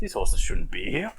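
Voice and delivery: hushed whispered aside; whispering. Retold or imitated. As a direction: whisper it conspiratorially. Whispered aside about horses.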